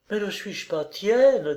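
slowly. A narrator's reading. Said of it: "dit-elle lentement".

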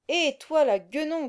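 loud gruff growl; growling soldier. A narrator's reading. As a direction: bark it out like a rough guard. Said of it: "grogna un soldat".

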